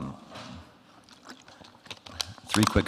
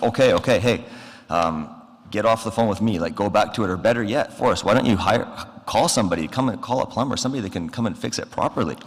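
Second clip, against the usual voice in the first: urgent pleading; 4 semitones higher than usual. Retold or imitated. Urging a friend to hire plumber.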